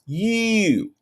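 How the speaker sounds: high, drawn-out catchphrase voice; high-pitched elongated imitation; Nesta. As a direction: stretch it out high, playfully mimicking. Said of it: "sound like Nesta when you say you".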